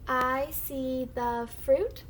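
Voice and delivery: slow, stretched model sentence for beginners; slow model reading. Shown as a demonstration. Teacher models a sentence for the class to echo, slow model reading. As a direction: read slowly word by word, rising at the end. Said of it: "I'm gonna read the sentence first".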